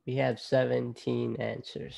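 ordinary talk

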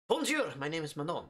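reading the game lines in a hammed-up French accent; a light put-on French accent; mock French accent. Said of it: "Your French accent is shit".

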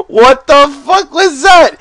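high, loud, slow disbelieving laugh-out; real stunned laughter; laughing disbelief. Real, not acted. Streamer seeing a player clobbered by a mole, stunned laughing.

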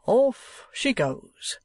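high, long drawn-out call; departure call. A narrator's reading. Guard sending the coach off, calling out. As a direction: sing out the start, stretching each word.

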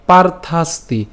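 "পার্থাস্তি" with a dental s sounded before the final তি. Shown as a demonstration. Teacher showing the dental s first, careful demo. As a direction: split "পার্থাস্তি" so the s closes পার্থাস. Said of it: "দন্তস্বকে আগে উচ্চারণ করলাম".

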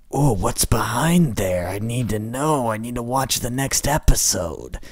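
lightly mocking eager viewer voice. Host mimicking viewers begging for the next episode. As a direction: tease the fans' impatience. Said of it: "that's what you guys sound like".

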